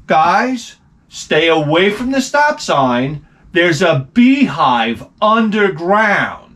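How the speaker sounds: slow, mock public service announcement. Parent warning the kids, slow mock-official announcement. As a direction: spell it out slowly like an official warning. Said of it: "it's a public service announcement".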